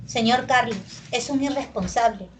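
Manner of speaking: "Señor Carlos," as an address, then "irresponsable" falling; falling statement intonation. Shown as a demonstration. Teacher showing descending tone again, falling statement. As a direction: pause after "Carlos" and let "irresponsable" drop. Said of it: "de nuevo descendente".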